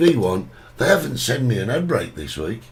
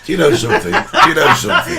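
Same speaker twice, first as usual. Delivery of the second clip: repeated twice, climbing higher and louder through a laugh; laughing exasperation; 4 semitones higher, 4 dB louder, faster than usual. Real, not acted. Exasperated host laughing, the repeat pitched much higher. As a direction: wound up by his co-host, laughing at him.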